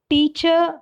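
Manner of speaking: "teacher" stressed on its first syllable; primary stress. Shown as a demonstration. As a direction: say "teacher" as TEA-cher. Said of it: "with primary stress".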